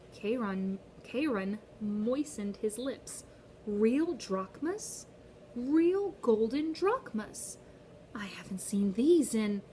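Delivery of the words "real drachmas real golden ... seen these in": breathless, whispered greed over the coins; greedy whisper. Acted. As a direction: whisper it like he craves the gold. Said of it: "his fingers hovered greedily".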